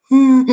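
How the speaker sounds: put-on high, loud childish "hmm-hmm"; hammed-up sulky whimper; mock crying whimper. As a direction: imitate a kid whimpering. Imitates himself crying as a kid.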